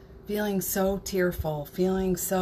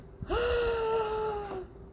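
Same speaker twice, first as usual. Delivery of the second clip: delighted high gasp. Real, not acted. Thrilled by idea.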